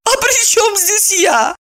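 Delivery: high, slow, lost little voice; bewildered. Acted. Maya, bewildered by friends' jokes, high and slow. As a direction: caught off guard, high and unsure. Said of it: "растерялась Майя".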